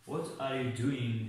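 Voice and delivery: "what are you doing" said very slowly, word by word; teacher modelling a question slowly; slow model sentence. Shown as a demonstration. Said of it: "مثال".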